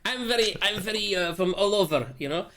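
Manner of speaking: put-on slipping into a Russian accent; wobbly put-on Russian accent. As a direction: laugh into a rough Russian accent. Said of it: "Russian there for a second".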